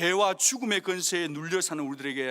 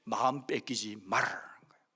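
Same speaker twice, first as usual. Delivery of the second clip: whisper; 8 semitones lower, 4 dB quieter than usual. Real, not acted. Preacher drops voice for appeal.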